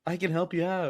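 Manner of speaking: lightly slick it like a car salesman schmoozing a buyer; sleazy car salesman. Retold or imitated. Ellis schmoozing Hans, hinting at a sleazy salesman. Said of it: "sleazy car salesman thing".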